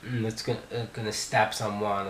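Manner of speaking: low, quiet retold mutter; retold mumbling. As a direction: mutter it under your breath. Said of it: "he was mumbling something".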